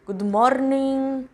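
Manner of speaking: slow English with a heavily rolled Italian R; Italian accent. Shown as a demonstration. Showing how an Italian says English, slow rolled-R Italian accent. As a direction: roll the R hard like an Italian speaking English. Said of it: "puxado o R".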